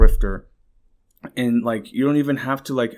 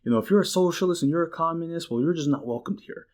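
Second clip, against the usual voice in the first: lightly voiced smug senator; a hint of a condescending politician; mock politician; 3 semitones higher than usual. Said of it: "he's like".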